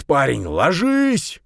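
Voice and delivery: loud, slow, desperate yell; frantic yell. A narrator's reading. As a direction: scream the warning, dragged out. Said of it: "истошно заорал он".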